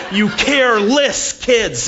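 high, loud, slow, each syllable its own blow; syllable-split scolding. Retold or imitated. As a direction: yell it syllable by syllable like a furious mom. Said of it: "she would even split syllables".

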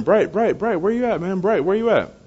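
high-pitched calling out, not full volume; retold screaming. Speaker calls from the van for a missing boy, mock scream. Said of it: "I started screaming".

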